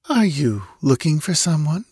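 put-on high, lazily unconcerned girl; indifferent. A narrator's reading. Drowsy girl to an armed intruder in her chamber, indifferent. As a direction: ask it as if it hardly matters. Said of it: "as indifferently as if the invasion".

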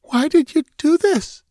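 very high, frightened plea; begging. A narrator's reading. Cowering captive asks her captor why, begging. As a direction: beg in a high-pitched, fearful girl's voice. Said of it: "she begged".

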